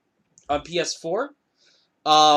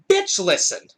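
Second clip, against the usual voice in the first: retold threat with punched, louder words; acted stern warning; 5 dB louder than usual. Teller to the aggressive driver, acted stern warning. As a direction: act out standing your ground.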